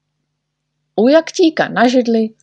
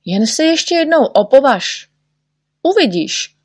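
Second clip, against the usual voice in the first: threatening; 7 semitones higher, 3 dB louder than usual. A narrator's reading. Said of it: "pohrozil mu Všeználek".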